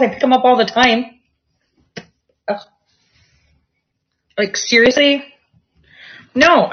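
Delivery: half-laughing complaint at the cat; grossed-out pet scolding. Real, not acted.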